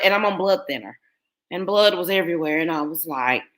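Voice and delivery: ordinary talk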